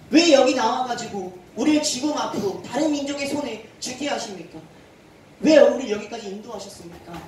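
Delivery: mock bitter outcry to God; cursing God. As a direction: hurl the blame at God. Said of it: "하나님을 저주하기 시작합니다".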